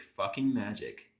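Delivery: slow, exasperated groan under the breath; a weary, half-muttered curse; mild groan of exasperation to himself. Acted. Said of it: "I groan to myself".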